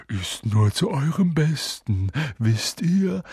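slow, falsely kind poltergeist; Peeves, mock-gentle. A narrator's reading. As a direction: feign concern slyly, lifting at the end. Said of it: "mit sanfter Stimme".

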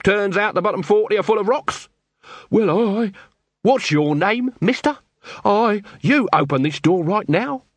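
high, wheedling accusing patter; Nobby's voice. Acted. Nobby bluffing the quartermaster with a high accusing patter. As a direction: lay the accusation on thick, pitched high.

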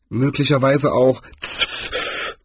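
slow, doubtful suggestion; drawn-out tentative guess. A narrator's reading. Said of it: "in einem zweifelnden Tonfall".

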